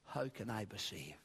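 low, hushed question to oneself; quiet, private wondering; inward questioning. Acted. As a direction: ask it softly, as if within your own soul. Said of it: "in your own soul".

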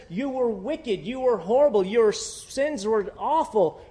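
"but" shouted loud and high; preacher voicing God with a soaring "but"; God's proclamation. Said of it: "God says".

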